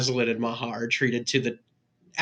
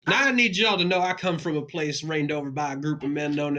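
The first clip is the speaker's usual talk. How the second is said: put-on Southern accent. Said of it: "the only accent Lorenz can do".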